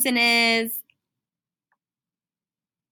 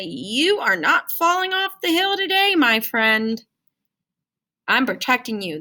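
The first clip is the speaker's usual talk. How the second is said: consonant speaking. Acted. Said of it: "That S is shutting the door".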